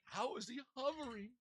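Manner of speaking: very high, soft falsetto; small high put-on voice; mock puzzled onlooker. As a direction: squeak it quietly in wonder.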